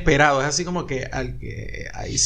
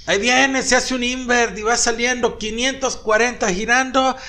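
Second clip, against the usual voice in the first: lightly voiced play-by-play commentator, a bit higher; hint of a live sports announcer calling a trick; 5 semitones higher than usual. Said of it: "Él está narrando".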